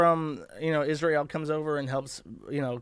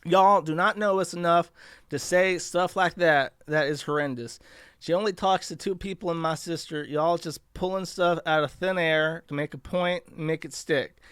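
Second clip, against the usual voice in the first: attempted Black girl accent. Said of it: "can I do a black girl accent".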